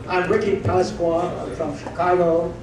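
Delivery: slow, drawn-out mock Chicago accent; lightly imitated American accent. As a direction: put on a hint of a Chicago accent. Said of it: "L A accent. But Chicago accent pala".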